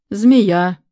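loud, grandly declaimed single word; pathetic proclamation. A narrator's reading. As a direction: announce it like a tragic herald. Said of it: "патетически провозгласил Сёма".

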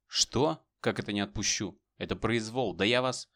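outraged. Acted. Outraged deputy protests.

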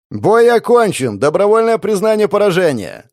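a referee proclaiming the fight over; loud announcement shout. A narrator's reading. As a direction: bellow the result to the arena. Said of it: "заорал он".

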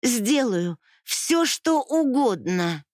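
a high drawn-out vow in tears; desperate plea. Acted. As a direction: stretch it out, begging. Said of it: "продолжала я".

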